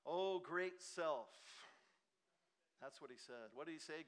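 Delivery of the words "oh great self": mocking the Pharisee. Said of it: "who's he praying to? Himself".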